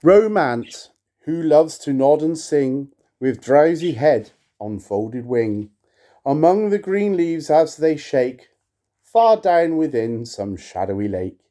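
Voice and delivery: measured, solemn recitation; poem reading. Acted. To viewers, reading Poe aloud, solemn poetic recitation. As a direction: intone the verse with gravity. Reads Romance.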